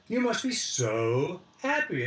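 wife, repeated. Retold or imitated. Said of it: "And she said".

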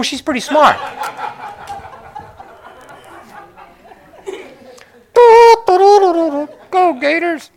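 high, giggling aside; real laughter breaking into the words; laughing. Real, not acted. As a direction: laugh through the teasing joke. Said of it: "please forgive me".

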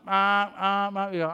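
repeated car-alarm honk noise; imitated car alarm. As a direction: mimic a car alarm going off.

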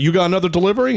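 probing, slightly threatening; menacing gangster. Retold or imitated. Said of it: "he's like".

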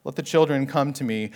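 light, dreamy tenderness; airy, kindly invitation; gentle, ethereal. Shown as a demonstration. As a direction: read it gently, as if a harp played behind. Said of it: "it's this gentle, ethereal".

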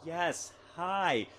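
put-on star greeting; Jeff Goldblum. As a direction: mimic an impressionist doing an eccentric star. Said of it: "he comes and goes".

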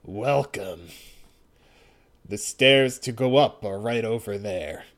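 low, even robot voice. Acted. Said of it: "he talks like a robot".

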